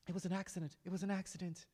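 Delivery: high, stammering, desperate voice begging for his life; a terrified man tripping over his words; panicked pleading camel driver. Acted.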